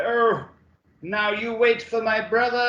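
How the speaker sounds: high-pitched hammed-up character quote; mock movie villain. Fan retells the film scene, high hammed-up character voice. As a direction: put on a high, theatrical imitation. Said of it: "it's like".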